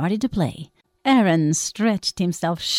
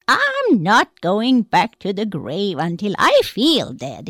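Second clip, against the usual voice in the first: dead man refusing; slower than usual. Acted.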